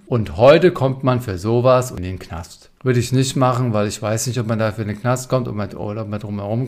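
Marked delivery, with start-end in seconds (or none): 0.1-2.7 slow, emphatic mock warning; overstated retort; exaggerating. Shown as a demonstration. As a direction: lay it on thick, drawn out. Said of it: "übertreibend".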